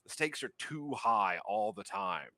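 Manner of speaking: a touch of nervous energy, halting; lightly voiced uneasy racer, sighing midway; nervous Darwin. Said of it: "got a little bit of a nervous energy about this".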